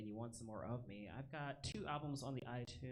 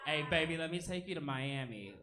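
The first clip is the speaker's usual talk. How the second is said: put-on smooth-talking boyfriend; 5 semitones higher, 10 dB louder than usual. Man wooing woman, acted.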